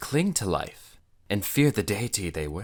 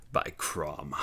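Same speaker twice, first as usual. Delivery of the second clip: growled oath; 4 dB quieter than usual. Acted. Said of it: "Conan growled".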